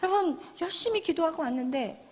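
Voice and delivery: ordinary delivery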